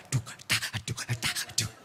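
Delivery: low, soft "duh" with tongue-tak sounds; imitated anxious tapping. Husband anxious at the ATM, muttered tapping noises. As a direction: act out hesitant button presses under your breath. Acts out anxious button pressing.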